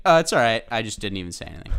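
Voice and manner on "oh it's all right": much higher and louder mock-polite reply; overly polite reply. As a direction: chirp it out like a sweet stranger. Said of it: "I didn't be like".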